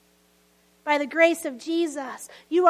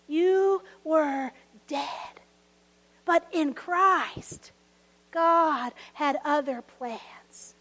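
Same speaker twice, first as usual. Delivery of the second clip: slow hushed refrain; 2 semitones lower, 4 dB quieter, much slower than usual. Real, not acted. Slow solemn sermon refrain.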